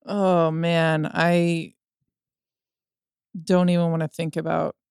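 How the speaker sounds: choked up. Real, not acted. Host imagining own kids leaving.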